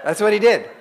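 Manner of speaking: laughing through the words; real laugh while telling. Real, not acted.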